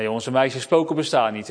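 ordinary talk, nothing marked

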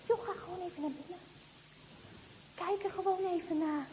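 whisper-soft temptation in her ear; tempting inner voice. Acted. The little voice tempting the girl, soft coaxing. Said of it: "het stemmetje zegt".

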